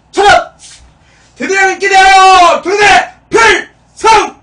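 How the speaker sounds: high shouted commands; drill sergeant. Shown as a demonstration. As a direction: bellow it like a drill instructor. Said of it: "봐봐".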